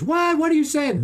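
high, loud mock outburst; squawked, exasperated disbelief, acted out; retold indignant disbelief. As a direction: voice an incredulous brother's protest. Brother reacts to repeated rejections.

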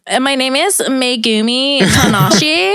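lightly voiced Starbucks order, laughing through it; playing a woman giving her full name; mock ordering. Mimicking someone ordering at Starbucks, laughing as she goes. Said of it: "Megumi's like".

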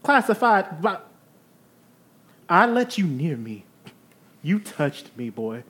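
fussy genteel lady. Acted. Eve again.

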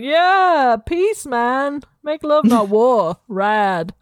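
lazy hippie blessing; stoned hippie. Acted. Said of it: "He's like".

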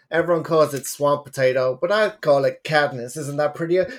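hammed-up Texas accent; a bad, exaggerated Texas accent. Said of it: "I'm gonna do my terrible Texas accent".

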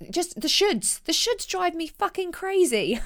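half-laughing exasperation; exasperated outburst. Real, not acted. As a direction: let your frustration boil over. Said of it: "I'm sorry for swearing".

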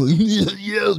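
mock the big kid's trash talk; pig-faced bully. Main shit-talker facing a fourth grader, mocking put-on voice. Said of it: "Elmer's pig sort of face and nose".

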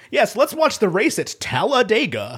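mock Southern race-fan voice; nascar accent. Co-host mocking a race fan, in a nascar accent. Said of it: "without the nascar accent".

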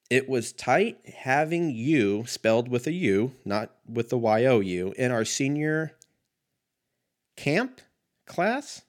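reads the note slowly, voice climbing high at the end; slow reading that rises high in confusion; puzzled read-aloud. Retold or imitated. Reading a friend's yearbook note to viewers, rising puzzled.

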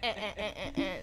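bleating like a goat. Retold or imitated. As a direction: mimic a goat's bleating laugh. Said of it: "That's what you sound like, a whole ass goat".

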